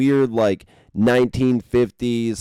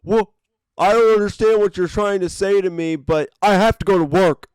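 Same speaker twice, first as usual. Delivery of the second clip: higher and louder, whiny pleading; hammed-up whiny plea in a higher voice; mocking the woman; 8 semitones higher, 5 dB louder than usual. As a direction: beg like a clueless entitled woman.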